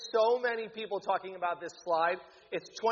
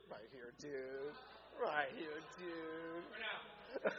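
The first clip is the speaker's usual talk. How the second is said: softer, slow teasing murmur; mock hush; 14 dB quieter, much slower than usual. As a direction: drop the voice way down, teasing. Playful hush to a champion.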